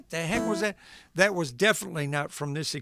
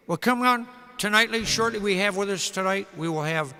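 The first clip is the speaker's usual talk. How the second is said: Ed Sullivan impression. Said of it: "not a very good impression of Ed Sullivan".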